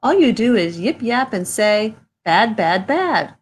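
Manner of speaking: mock yelling. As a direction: tell the nagging creature off. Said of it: "I yell at the Lorax".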